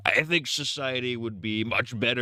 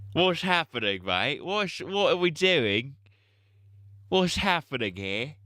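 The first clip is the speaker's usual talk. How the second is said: higher, rising confused questions; bewildered; 6 semitones higher than usual. Acted. Streamer confused at the game, asking chat in surprise. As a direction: sound baffled by the game.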